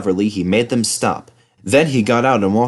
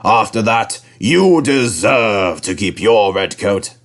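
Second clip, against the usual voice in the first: lightly voiced kindly boss; a mild, pleased manager; lightly voiced controller; 3 dB louder than usual. A narrator's reading. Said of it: "he said".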